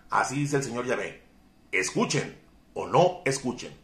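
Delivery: firm, declaiming scripture reading. Acted. Preacher reading Ezekiel to his listeners, firm declaiming. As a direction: proclaim God's word to the congregation.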